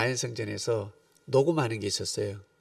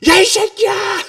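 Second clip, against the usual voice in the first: yelled at a speeding biker at full voice; much higher and louder, slowly dragged out; reliving the angry yell at the biker; furious shout; 14 dB louder, slower than usual. Retold or imitated. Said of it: "그랬어요, 제가".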